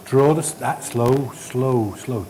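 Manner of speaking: drawn-out coaching slow, slow; calm instructor pacing a trainee. Shown as a demonstration. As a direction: guide the hand gently, word by word. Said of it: "coaching scope withdrawal".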